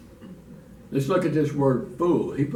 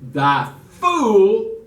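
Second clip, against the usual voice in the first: much higher, louder scornful jab; spat insult; 7 semitones higher, 11 dB louder than usual. Acted. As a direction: fling the insult at him. Preacher acts out the insult.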